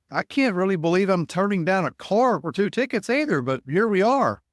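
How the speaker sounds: high, loud disbelief, half laughing at it; incredulous. Retold or imitated. Ticket seller retelling his answer to the car trade, loud disbelief. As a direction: play up how absurd the offer was.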